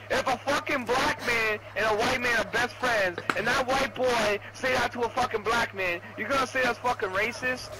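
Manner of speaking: raging gamer. Real, not acted. Heated rant at teammates.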